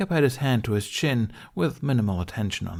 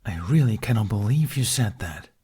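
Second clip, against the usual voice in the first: deadpan; 3 dB louder than usual. A narrator's reading. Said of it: "Toothless deadpanned".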